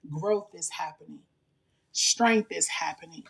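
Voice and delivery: deliberate, measured declaration, each line left to settle; slow declaration. Real, not acted. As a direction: read slowly with long pauses between lines. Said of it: "I want to read it slowly".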